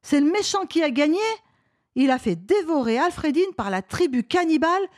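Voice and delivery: put-on high, upset little boy; high-pitched youngster in despair; dismayed child. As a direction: lament the villain's win like a kid. Boy despairs over heroine's death.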